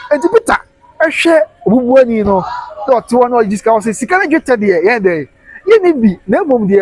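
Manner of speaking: preaching shout. Acted. Preacher shouting Peter's words to the beggar. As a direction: proclaim it like a preacher calling out.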